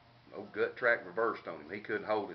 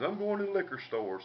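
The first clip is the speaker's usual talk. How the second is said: retold holler; 9 semitones higher than usual. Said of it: "Willie hollers".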